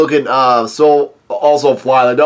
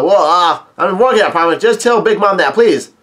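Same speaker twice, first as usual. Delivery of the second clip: lightly voiced Caesar; 5 semitones higher than usual. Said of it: "And Caesar says".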